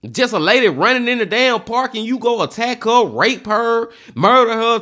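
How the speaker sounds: a furious list of what he did; mad as hell. Real, not acted. Reacting to the murder, raising his voice in real anger. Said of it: "I done got mad as hell now".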